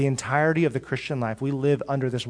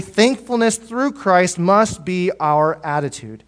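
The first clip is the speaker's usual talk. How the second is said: slow emphatic statement; 3 semitones higher, slower than usual. Shown as a demonstration. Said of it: "repeated for emphasis".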